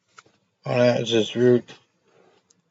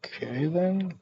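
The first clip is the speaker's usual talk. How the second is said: put-on light, higher-pitched young woman's voice; high girl's voice; 8 semitones higher, 5 dB quieter, slower than usual. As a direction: voice the cheerful girl higher up. Girl character speaks.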